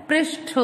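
"पृष्ठ" as "presh-tho", aspirated ending; correct pronunciation. Shown as a demonstration. Teacher answering her own question, correctly pronounced. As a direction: release the final th of "पृष्ठ" fully. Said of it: "क्या होता है?".

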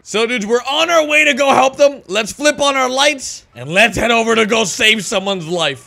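loud, high excited hero narration; eager medic on the way; hyped up. Acted. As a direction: pump everyone up for the rescue.

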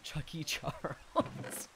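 slow, breathy laugh through it; giggling the nickname. Real, not acted. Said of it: "repeats the nickname laughing".

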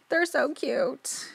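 put-on high, slow baby-talk coo. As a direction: coo over it like a puppy. Cooing over dinosaur picture.

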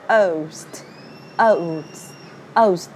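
"oast" as a gliding O-to-U, then st; "oast" with a full OU diphthong; sound demonstration. Shown as a demonstration. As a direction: model "oast" slowly and separately. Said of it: "Nó là âm O và âm U".

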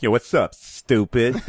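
lisping rapper voice; mild rapper impression. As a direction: toss it off like a rapper. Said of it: "use the word stupid with a rapper".

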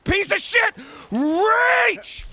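high loud angry yell; furious shout. Real, not acted. Gamer cursing the climber, furious loud yell. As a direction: bark it at the screen.

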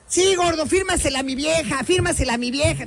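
a hint of a pushy husband; eager husband. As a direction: mimic the husband egging him on. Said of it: "y otro güey atrás".

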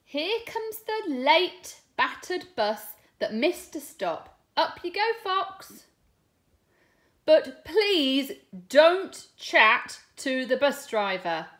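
lively, sing-song storybook reading with voiced lines; reading to children. Teacher reading a bus story aloud to her class, animated storytelling. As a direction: read it big for the little ones. Reads picture book to class.

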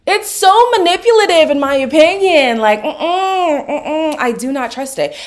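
laughing head-shake mm-mm. Real, not acted. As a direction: laugh while refusing. Laughing disapproval.

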